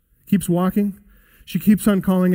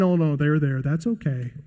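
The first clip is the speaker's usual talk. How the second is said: mock soft dismissal; 4 semitones lower, 5 dB quieter than usual. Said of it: "He's not saying".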